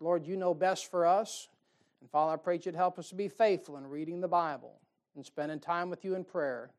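earnest pastoral prayer voice; closing prayer. Real, not acted. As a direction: pray over the congregation, steady and sincere.

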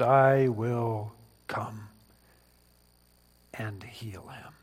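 almost whispered promise; hushed, slow. Acted. Preacher voicing Jesus' promise, hushed and slow. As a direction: breathe it gently, slowly.

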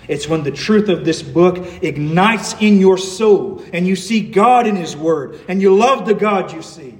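emphatic pulpit build-up; impassioned preaching. Real, not acted. Preacher telling the congregation what fuels the heart, impassioned. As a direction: drive the point home with fervour.

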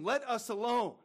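mild hammed-up demon plea; demon crying out. A narrator's reading. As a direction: cry it out as the unclean spirit. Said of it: "cried out, saying".

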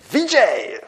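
imitating his high-pitched voice, short and bright. Preacher imitating V J answering his name in a high voice. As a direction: pop the name out high like the old lecturer. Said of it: "he used to talk in a very high voice".

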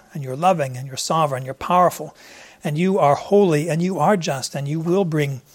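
steady, reverent prayer voice; closing prayer. Acted. Pastor praying over his congregation, reverent. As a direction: pray it sincerely for the room.

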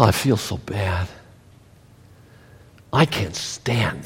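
a whiny put-upon Christian, sighing and low; mock whiny complaining. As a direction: mimic the whining believer, soft and deflated.

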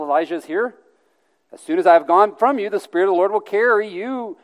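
high, loud, urgent plea; agitated protest. Acted. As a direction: plead your case forcefully. Obadiah protests he will be killed.

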